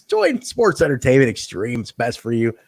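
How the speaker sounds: a lightly voiced heel coaxing a rival to join; acted recruiter voice. Host voicing a wrestler coaxing Jorge to join, mock coaxing.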